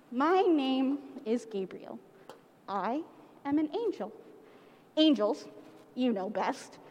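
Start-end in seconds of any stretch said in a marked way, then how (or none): 0.1-4.1 calm, hushed heavenly announcement; angel voice. Acted. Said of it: "the vision spoke again".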